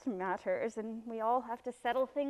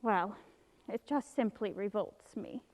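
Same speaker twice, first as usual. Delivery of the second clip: ordinary talk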